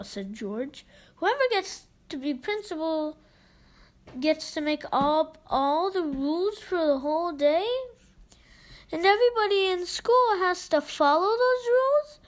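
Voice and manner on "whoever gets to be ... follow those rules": exclaiming. Acted. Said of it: "exclaimed Harold".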